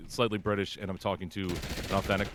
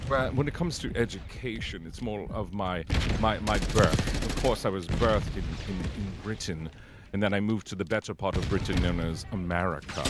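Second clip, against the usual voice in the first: lightly voiced smug, arrogant Brit; Nigel Knife. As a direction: hold forth like a self-satisfied British know-it-all. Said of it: "the most smug and just arrogant".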